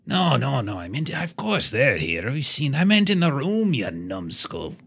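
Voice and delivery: exasperated high-pitched correction; exasperated dwarf. Acted. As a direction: scold them like fools.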